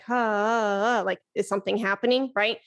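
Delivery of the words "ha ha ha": light, surface-level ha pulses, quick; barely flick the ha, nothing behind it; shallow haws. Shown as a demonstration. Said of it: "It's not surface level where it's like".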